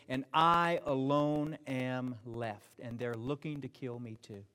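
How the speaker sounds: despairing. Retold or imitated. Lonely Elijah's lament.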